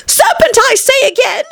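high pigeon falsetto, slightly held back; subdued screech. A narrator's reading. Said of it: "but in a more subdued tone".

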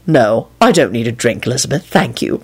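low, softening, understated calm. A narrator's reading. Man refusing a drink from the woman, low and calm. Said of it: "Quentin replied calmly".

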